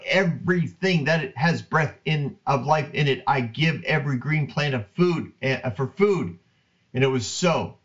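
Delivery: measured, earnest Bible reading; scripture reading. Acted. Host reading Genesis to listeners, steady reverent reading. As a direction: read the verses aloud with reverence. Reads Genesis verses aloud.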